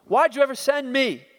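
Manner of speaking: a hint of anguished self-doubt. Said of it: "self-doubt".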